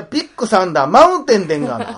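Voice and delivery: loud, high, hammed-up Kansai accent; Kansai dialect. Answering her jibe with a hammed-up Kansai version. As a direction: belt it out in broad Kansai. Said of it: "お前関西人殺されんぞ".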